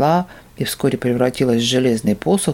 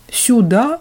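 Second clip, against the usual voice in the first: high, alarmed question; horrified; 9 semitones higher than usual. Acted. The monk asks, horrified and high. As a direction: gasp it out in horror. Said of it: "ужаснулся четвёртый".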